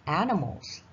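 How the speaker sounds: animals with clear final s; plural ending. Shown as a demonstration. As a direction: stress the s in animals. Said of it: "animal这个字要用复数".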